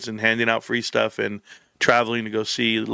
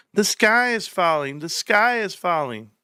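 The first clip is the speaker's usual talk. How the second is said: drawn-out, pitched-up pretend panic; mock alarm; 6 semitones higher, slower than usual. Streamer mocks panic over the stock, slow singsong alarm. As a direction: cry doom slowly, not meaning it.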